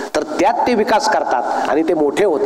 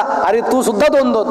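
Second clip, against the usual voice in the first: mock yell, higher and drawn out; retold cry; 5 semitones higher than usual. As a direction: cry out in comic alarm without much volume. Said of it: "तो मोठ्यानं ओरडला".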